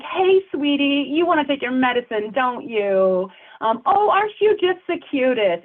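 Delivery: put-on high sing-song baby talk to an elder; cutesy elder speak. Shown as a demonstration. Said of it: "elder speak is an overly familiar way ... sounds like baby talk".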